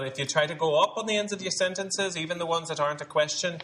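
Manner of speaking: statement tilted upward like a question; rising sentence endings. Shown as a demonstration. Dialect coach showing cast how statements rise, lilting upward.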